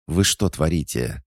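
high, indignant demand; indignant scolding. A narrator's reading. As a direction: demand an explanation from your pupils. Coach scolds her fighting pupils.

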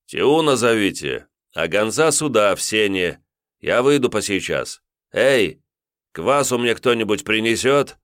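громко, повыше, на весь дом; окликнуть челядь издалека; зовёт слуг. Acted. Воевода кличет слуг. (воевода громко зовёт слуг)

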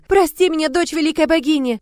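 high, loud desperate begging; frightened plea. A narrator's reading. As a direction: beg for mercy in terror. Напуганная женщина молит на коленях. (испуганная мольба)

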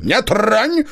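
high sharp snap from the hollow; sharp spirit voice. A narrator's reading. Spirit stopping the hunter reaching for the gun, sharp. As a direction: cut him off sharply. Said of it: "резкий голос из дупла".

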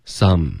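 "some" with a wide, short "ah"; open-mouthed vowel. Shown as a demonstration. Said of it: "嘴巴张开".

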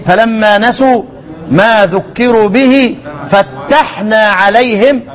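slow recitation with doubled t in "فتحنا"; measured verse reading, geminated ت in "فتحنا". Shown as a demonstration. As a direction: recite slowly, holding the ت of "فتحنا" as fattahna. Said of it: "شدد لشام. وها هنا".

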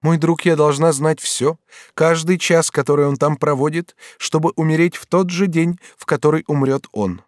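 high, emphatic heroine voice; solemn, feverish Batilda. Acted. Batilda must know every hour he spends, solemn.

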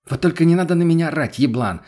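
quick furious comeback; snapping back. Acted. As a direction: snap back at him, offended. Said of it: "огрызнулась та".

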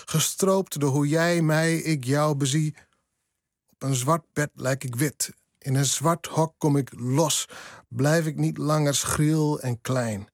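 slow, measured poetry reading; poem recital. Acted. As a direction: read it like a poem, every line weighed. (gedichtvoordracht, langzaam en afgemeten)

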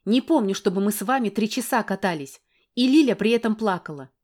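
woman snapping back at the man; angry retort. Acted. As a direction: snap back with sarcasm.

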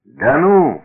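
mock amazement, high and loud; feigned surprise. A narrator's reading. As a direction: pretend to be astonished by a tall tale. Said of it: "притворно удивился хозяин избы".

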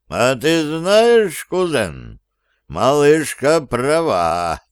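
slow, easygoing booming duke; good-natured rumble. Acted. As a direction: rumble it kindly, slowly. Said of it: "добродушно прогудел герцог Ламейский".

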